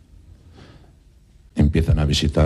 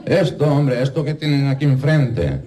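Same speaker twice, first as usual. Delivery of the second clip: exasperated; 10 semitones higher than usual. Acted. Frustrated man to duck.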